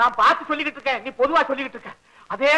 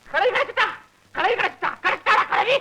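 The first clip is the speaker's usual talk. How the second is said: high, gleeful cry of good news; overjoyed; 6 semitones higher than usual. Acted. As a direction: crow the news with delight. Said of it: "இவ்வளவு சந்தோஷம்".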